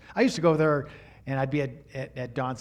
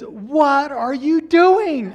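1 irritated father; 10 semitones higher, 10 dB louder, much slower than usual. Retold or imitated. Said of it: "he says".

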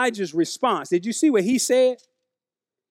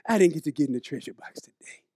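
put-on sulky child; 6 semitones lower, 5 dB quieter than usual. Child complaining about the treasure box.

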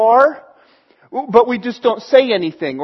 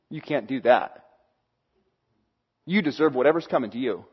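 cartoony judging; 8 semitones lower, 8 dB quieter, faster than usual. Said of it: "doesn't quite sound that cartoony".

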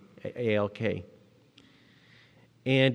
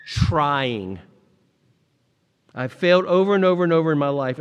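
booming quote from the pulpit; preached Jordan quote; 4 semitones higher, 6 dB louder than usual. Retold or imitated. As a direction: proclaim it like a rallying cry. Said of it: "Michael Jordan once said this".

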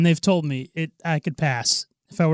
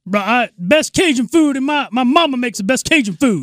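higher, put-on New Orleans voice; African American impression; 7 semitones higher, 4 dB louder than usual. Friend boasts of mama's cooking, higher African American impression. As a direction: brag as caricatured Louisiana local. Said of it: "do African American guy".

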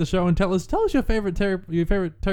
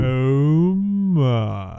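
sultry voice; 3 semitones lower, 4 dB louder than usual. Pretend. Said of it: "partner joins the sultry bit".

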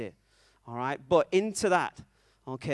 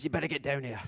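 lightly attempted Scottish accent; rough stab at a Scottish engineer; Scotty; faster than usual. Scotty summoning Captain Kirk, bad Scottish accent. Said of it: "is my accent".

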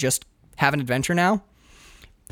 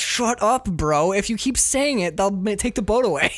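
mock shushing; 5 semitones higher than usual. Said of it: "the other character's like".

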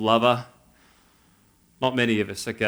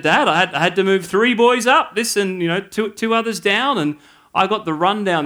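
louder, bossy little boss reporting her rulings; a kindergartner lording it over classmates, louder and proud; self-important; 4 semitones higher, 4 dB louder than usual. Retold or imitated. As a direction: play the child puffed up with power. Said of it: "it went to her head".

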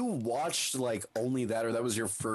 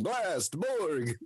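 higher, drawn-out catchphrase call; mock battle cry; 4 semitones higher than usual. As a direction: keep calling attacks while being hauled away. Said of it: "while he's still going".

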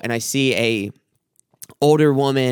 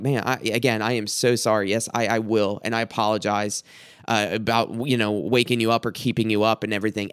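lower, subdued retold apology; humbling apology; 4 semitones lower, 3 dB quieter than usual. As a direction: placate her meekly, voice dropped. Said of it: "I'm just humbling myself".

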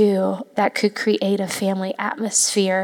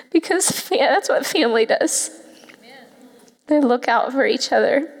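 real emotional; 4 semitones higher than usual. Real, not acted. Speaker telling church what family does, emotional. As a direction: still choked up, voice catching. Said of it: "I'm gonna get emotional again".

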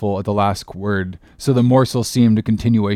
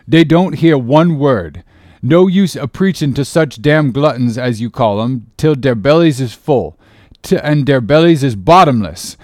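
put-on old cook Fleece protesting; 5 semitones higher, 6 dB louder than usual. A narrator's reading. Cook tells Stubb the sharks won't listen, emphatic dialect. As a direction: grumble like a preacher nobody heeds. Voices Fleece giving up preaching.

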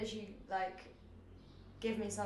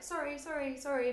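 string of little sorries, lightly raised pitch; polite move-along request; 5 semitones higher than usual. Shown as a demonstration. Squeezing through a busy place, politely asking people to move. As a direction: repeat it lightly to ask for room. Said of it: "that means basically, "Can you move, please?".

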